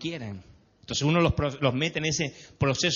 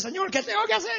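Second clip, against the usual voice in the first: pleading prayer. Retold or imitated.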